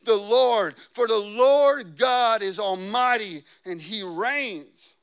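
loud, high, drawn-out proclamation; shout of praise. Acted. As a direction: roar it out like a vast crowd. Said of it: "a shout, a vast crowd roaring".

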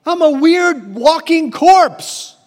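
high, loud mock monster moaning; a hammed-up sad walking corpse; playful monster whining about being alive. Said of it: "he's like".

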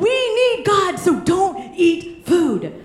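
hammed-up zealous fourteen-year-old, pitch way up; zealous teen rallying. Teen leader urging her small group to fast, excitedly. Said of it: "And I was passionate".

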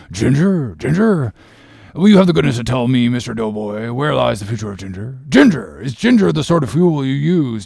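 sarcastic seaman drawing out each question; slow mock bafflement. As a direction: Stubb mocking the steward with sarcasm. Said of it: "slowly saying".

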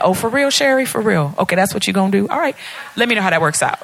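God's voice, mildly sarcastic; snarky comeback. Acted. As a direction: tease with a touch of snark. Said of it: "he'll come at me just like that".

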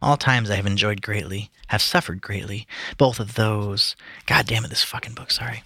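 slow, measured recitation; poem reading. Acted. Reading Tennyson to friends, earnest recitation. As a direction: read it with gravity, lingering. Reads Ulysses aloud.

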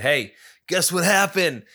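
bursting to share news; excited retelling. Retold or imitated. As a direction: raise the pitch, teasing good news. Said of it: "I was so excited about that".

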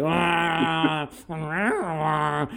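mock Wookiee grunting; lightly voiced Wookiee noises; Wookiee babble. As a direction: imitate Chewbacca's family babbling. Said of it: "Chewbacca's family talking".

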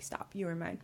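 imitating a quiet voice in the head; retold command, dropped almost to a whisper; hushed inner voice. Voices God speaking in her head.

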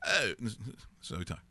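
lightly imitated Austin Powers-style British accent; the speaker, Austin Powers-like. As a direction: greet with a hint of mock Austin Powers British. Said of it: "it's a little, uh, Austin Powers-like".

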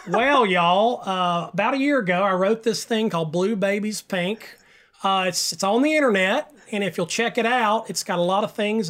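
hammed-up West Virginia small-town accent. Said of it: "I'll use my best West Virginia voice".

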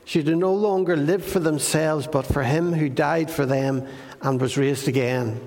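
measured, solemn Bible reading; scripture reading. Acted.

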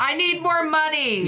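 says it through a laugh. Real, not acted. Guest laughing about getting paid. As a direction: laugh the demand out slowly.

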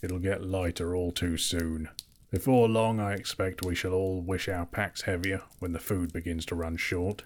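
low, gruff dwarf king. Acted. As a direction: speak it deep and grumbling. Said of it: "growled Thorin".

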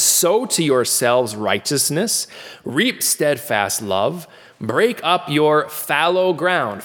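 scripture reading. Acted.

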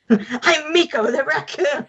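high, slow spooky cartoon voice; a ghoulish raccoon voice, drawn out; jack o lantern voice. Voicing Miko as Crypt Keeper.

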